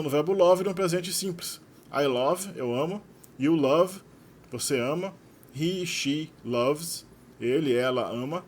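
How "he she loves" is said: slowly stressed loves. Shown as a demonstration. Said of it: "slow verb demo".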